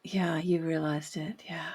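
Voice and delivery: barely voiced, soft agreement; hushed whisper. Real, not acted. Host whispers agreement to Mary Jo's insight. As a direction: breathe the yes in a whisper. Host softly affirms guest.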